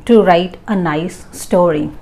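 very slow, deliberate read. Shown as a demonstration. Teacher slowly reading the right and write example. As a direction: give every word its own beat. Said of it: "Moving on to the next one".

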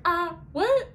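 high, loud mock shock; shocked what. Heroine learning she's dropped on a prison planet, startled. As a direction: jump up in alarm at the news. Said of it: "And she's like".

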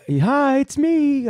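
high squeaky mock greeting on the phone; imitating Eric. Host mimicking the piano tuner answering the phone, high mock squeak. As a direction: pitch way up to mimic the caller's voice. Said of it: "you could see Eric, the butt nut".

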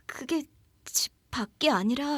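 whispered, ominous; eerie whisper. Acted. Minji whispering to her friend that it's inside, eerie. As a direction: let it slip out in a whisper.

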